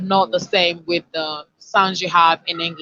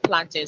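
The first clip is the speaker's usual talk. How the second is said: plantain stressed as PLAN-tin; first-syllable stress; 3 semitones lower, 5 dB quieter than usual. Shown as a demonstration. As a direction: PLAN strong, second syllable reduced. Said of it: "the word is pronounced".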